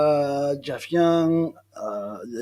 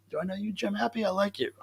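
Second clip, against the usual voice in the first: whispering; 5 semitones higher, 9 dB quieter than usual. Pretend. Playful aside to viewer.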